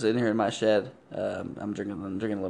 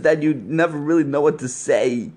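changed caller voice; 4 semitones higher, 6 dB louder than usual. Acted. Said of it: "did your voice just change up there".

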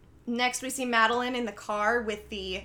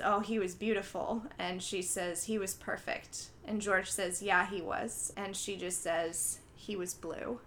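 retold hushed grief; 2 semitones lower, 7 dB quieter than usual. Retold grief over a lost baby.

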